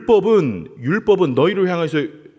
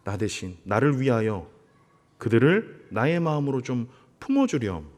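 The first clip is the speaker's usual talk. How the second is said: soft, gentle fatherly plea; tender request; 5 semitones lower, 6 dB quieter than usual. Retold or imitated. God gently asking Moses to embrace the people, softly.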